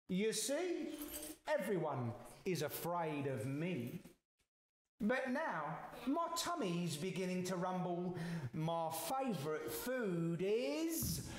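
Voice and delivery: lightly voiced mouse, savouring the threat; boastful mouse.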